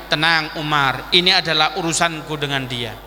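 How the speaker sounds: acted calm reassurance; calming the hothead. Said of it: "Kata Kanjeng Nabi".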